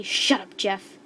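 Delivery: loud, sharp burst on the first words; acted scream. A narrator's reading. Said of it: "Slendy screamed at him".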